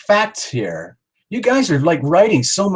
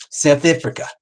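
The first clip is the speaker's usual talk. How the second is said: second go at a South African accent; South African accent attempt. Shown as a demonstration. Host practising the country's name, attempted South African accent. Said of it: "I'm not doing my South African accent very properly".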